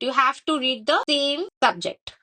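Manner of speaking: every word of "you have to read the same subject" drawn out slowly; very slow, deliberate restatement of "the same subject"; slow emphatic repeat. Shown as a demonstration. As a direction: spell the rule out word by word. Teacher repeats the rule slowly.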